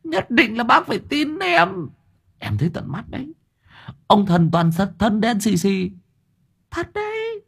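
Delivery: high pleading insistence; whiny high insistent plea; insisting. Acted. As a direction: beg him to believe you. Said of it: "nằng nặc khẳng định".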